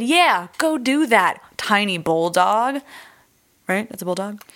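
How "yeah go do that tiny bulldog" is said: lightly voiced, slow cheering on the dog; a hint of coaxing a dog, drawn out; mock encouragement. Retelling the family sending the dog in, lightly coaxing. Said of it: "they said".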